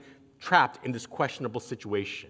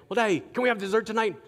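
put-on kid begging; 7 semitones higher, faster than usual. Kids begging father for dessert.

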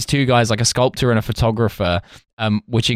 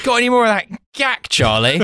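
higher voice begging for more coke; coked-up guy; 10 semitones higher than usual. Retold or imitated. Host joking about coke in a higher put-on voice. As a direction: camp it up for the gag.

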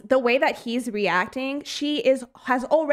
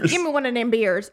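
quick, light Southern twang impression; mock Southern accent; faster than usual. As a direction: toss off a bad Southern accent, a little faster. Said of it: "doing a Southern accent?".

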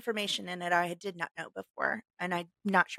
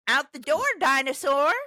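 playful rhyme reading; 6 semitones higher, 6 dB louder than usual. Shown as a demonstration. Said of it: "sound better in my accent".

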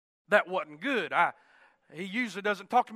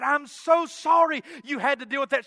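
imitated wife, raised and emphatic sympathy; effusive apology; 4 semitones higher, 5 dB louder than usual. Wife apologizes to husband for his trouble, effusive. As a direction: apologize with emphasis, higher and louder.

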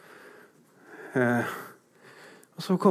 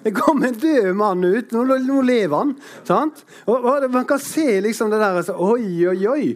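excited preaching; 6 semitones higher than usual. Real, not acted. Preacher excitement over miracle.

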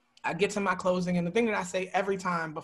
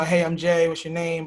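friendly greeting; 5 dB louder than usual. Retold or imitated. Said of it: "I'll shake everybody's hand".

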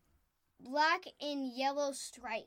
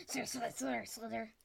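slithering demo; 4 semitones lower, 6 dB quieter, faster than usual. Shown as a demonstration. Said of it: "Do they slither like this?".

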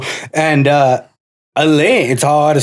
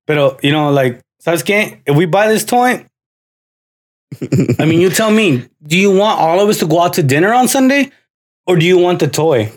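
lightly raised patient father; father makes his son choose toy or dinner, raised; mock bargaining dad; 3 semitones higher than usual. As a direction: bargain with the child, reasonable. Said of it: "he would always be like".

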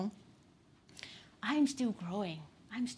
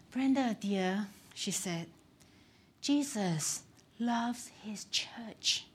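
gentle mentor; 3 dB quieter, slower than usual. Retold or imitated. Mentor gently corrects young Brenda.

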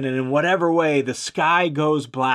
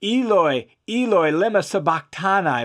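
"Eloi, Eloi" called out, a bit raised; a mild, understated cry of anguish; a touch of a loud cry; 4 semitones higher than usual. Acted. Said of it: "Jesus cried out with a loud voice".

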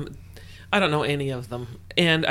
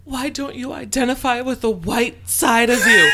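mother's question; 8 semitones higher, 9 dB louder than usual. Retold or imitated. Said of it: "And she says".

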